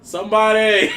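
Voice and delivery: high, loud cry; yelling for help. Retold or imitated. Man acting out the woman he surprised, yelling for help. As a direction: call out for rescue, half laughing. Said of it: "she was just yelling for help".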